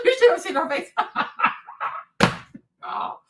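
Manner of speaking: words dissolving into laughter; laughing. Real, not acted. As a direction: laugh through it, then just laugh. Laughing at mother's reaction.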